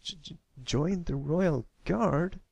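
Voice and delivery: put-on high, slow shocked stammer of a young colt. A narrator's reading. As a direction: stumble over the first word in disbelief. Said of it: "as he started to stammer".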